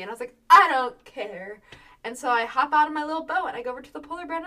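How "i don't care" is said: loud, slow, stubborn declaration; defiant. Retold or imitated. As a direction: dig in and refuse to listen. Retold defiant reply.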